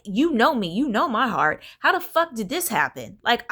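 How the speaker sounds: mild mock rant, pitch jumping up; reliving her frustration, half-hearted fury; retold anger. Venting at the universe about her new reality, retold anger. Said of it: "I was, I was pissed".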